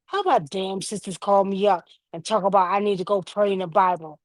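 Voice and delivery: lightly imitated annoyed grandfather; a touch of an old man's grumbling complaint; grandfather's indignation. Grandson retelling grandfather's gripe about his sisters, mildly mock-indignant. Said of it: "say it just like this".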